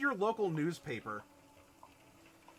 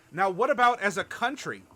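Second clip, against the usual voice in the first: rising emphatic question; 4 semitones higher, 9 dB louder than usual. Acted. GM builds up to bigger calamities.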